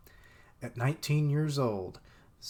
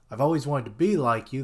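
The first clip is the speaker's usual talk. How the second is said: mock-sweet imitation; 7 dB louder, faster than usual. Shown as a demonstration. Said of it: "That endears you".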